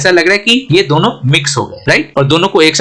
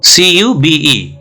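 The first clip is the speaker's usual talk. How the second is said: slow spelling; much slower than usual. Shown as a demonstration. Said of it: "spelling out letters".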